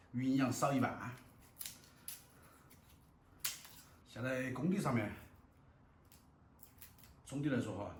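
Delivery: talking with a mouthful of noodles; chewing while talking. Real, not acted. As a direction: chew between words. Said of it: "eating noodles while talking".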